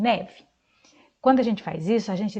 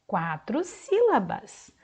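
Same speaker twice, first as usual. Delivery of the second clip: ordinary talk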